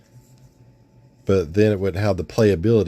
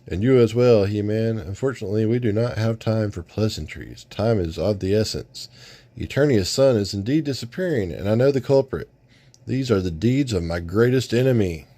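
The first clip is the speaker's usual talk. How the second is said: noble ally; 2 semitones higher than usual. Acted. Sunman speaks in comic reading.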